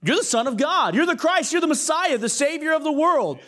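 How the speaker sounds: awestruck Peter. Acted. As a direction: proclaim who he is, overwhelmed. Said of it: "He says".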